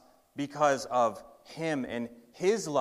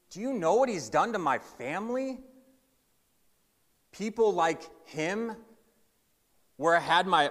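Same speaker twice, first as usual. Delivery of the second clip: higher-pitched aggrieved complaint; indignant townsman; 4 semitones higher than usual. Acted. Wronged townsman complaining to Jesus about Levi, indignant. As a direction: rant at Jesus about the cheat who robbed you.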